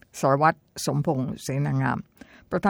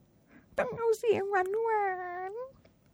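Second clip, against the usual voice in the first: high, slow, sugary mock voice; mock sweet voice; 6 dB quieter, much slower than usual. Retelling critics, high mocking sweet voice. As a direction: sneer at the demand for a sweet voice. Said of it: "ที่เขาต่อต้านกัน".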